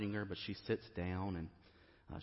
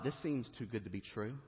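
pleading doubt; 5 semitones higher, 10 dB louder than usual. Retold or imitated. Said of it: "the question is not rhetorical".

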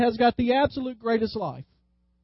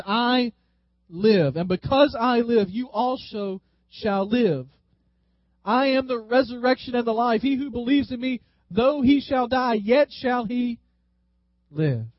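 solemn scripture quote. Acted. Preacher quotes Jesus solemnly.

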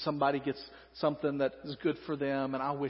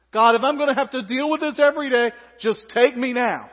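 melodramatic plea; 7 semitones higher, 9 dB louder than usual. Acted. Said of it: "Melodramatic again".

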